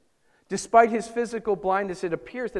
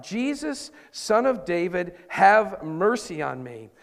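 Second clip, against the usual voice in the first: a blind beggar crying out for mercy; pleading shout; 4 dB louder, slower than usual. Retold or imitated. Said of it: "he began to shout".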